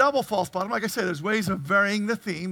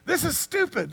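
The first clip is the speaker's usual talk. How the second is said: mock exasperation; 5 semitones higher than usual. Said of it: "what Abraham was not doing".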